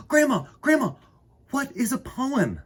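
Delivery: put-on child calling out to grandma. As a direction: call eagerly to grandma.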